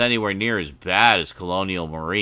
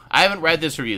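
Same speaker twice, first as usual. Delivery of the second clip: hipster voice; 7 semitones higher, 4 dB louder, much faster than usual. Acted. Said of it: "your hipster voice".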